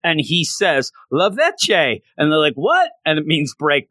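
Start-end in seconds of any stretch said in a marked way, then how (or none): 1.1-2.0 French word. Retold or imitated. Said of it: "he's saying it in French". 2.5-2.9 high, squeaky confused What; mock bewildered squeak; baffled what. Confused reaction.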